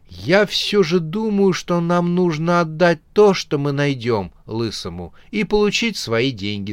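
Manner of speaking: timid nephew insisting; ghost nephew. Acted. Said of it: "сказал пельмень".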